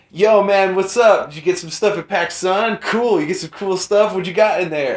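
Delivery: a clerk in the shop next door greets me, lightly imitated bro voice; chummy store clerk. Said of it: "the guy was like".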